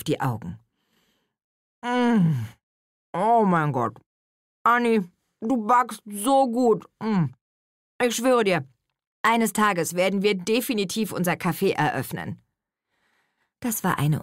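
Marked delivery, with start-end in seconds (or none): 1.8-12.4 high, swooning praise; delighted Nele. A narrator's reading. Nele tasting Anni's chocolate cake, high and delighted. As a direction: rave about the cake, higher and louder.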